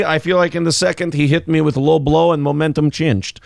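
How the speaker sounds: mock Russian fighter's excuse; Russian accent. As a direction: put on a light comic Russian accent. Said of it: "you can do a Russian accent".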